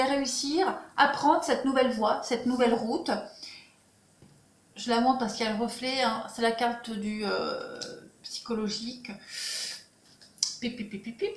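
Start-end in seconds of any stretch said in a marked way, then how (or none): 4.8-9.1 talking with a dry mouth; parched, thirsty mouth. Real, not acted. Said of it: "j'ai la bouche sèche". 10.6-11.3 soft lip smacks to wet mouth; smacking dry lips quietly. Real, not acted. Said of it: "j'ai la bouche sèche".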